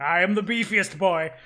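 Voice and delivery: high, loud yappy kobold; squeaky yappy lizard chatter. Acted. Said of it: "That is a beefy kobold".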